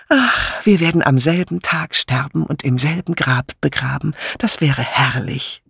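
hoch einsetzend, dann verträumt gedehnt; schwärme selig deinem Mann vor; schwärmerisch. Acted. Bunch schwärmt vom gemeinsamen Altwerden. (verzückt schwärmend)

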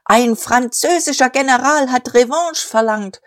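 high, overstrained shouting voice; voice cracking. A narrator's reading. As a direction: push until the voice breaks. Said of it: "die Stimme überschnappte". (überschnappende Stimme)

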